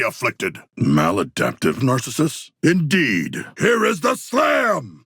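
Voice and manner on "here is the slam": high, slow battle cry; triumphant shout. Acted. Fighter announcing a slam to the squad, triumphant shout. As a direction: roar it out as the blow lands. Big finishing attack.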